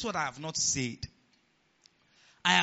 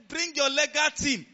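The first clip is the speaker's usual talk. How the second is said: higher, loud challenge; firm challenge; 9 semitones higher, 4 dB louder than usual. Retold or imitated. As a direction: dare them, firmly. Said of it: "I said".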